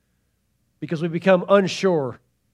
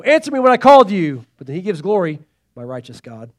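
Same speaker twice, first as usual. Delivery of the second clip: urgent cry then reverent hush; 5 dB louder than usual. Retold or imitated. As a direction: demand loudly, then drop to hushed glory. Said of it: "Like how he gets all".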